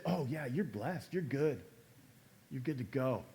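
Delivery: mock breezy blessing; flippant. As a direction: brush them off casually, you're fine. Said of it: "it's so flippant".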